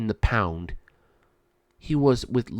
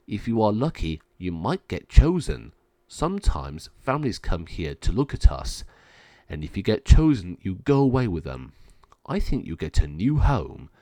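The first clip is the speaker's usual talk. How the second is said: cage dog; 2 semitones lower, 3 dB louder than usual. Acted. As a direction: explain it in a slightly lowered dog voice. Cage dog one explains hope.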